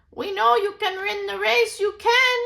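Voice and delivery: high, loud encouragement; excited cheering. Acted. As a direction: cheer him on, bouncing.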